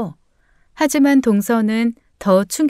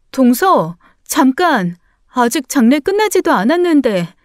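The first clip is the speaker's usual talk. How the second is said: flustered, urgent call; taken-aback protest; calling after someone; 3 semitones higher than usual. Acted. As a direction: stop them leaving, pitch rising. Calling after departing sister-in-law.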